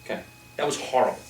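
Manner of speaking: blunt, dismissive put-down; harsh critique. Shown as a demonstration. Coach demoing a harsh put-down to Roop. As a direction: tear the speech apart bluntly. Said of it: "I know that's kind of funny".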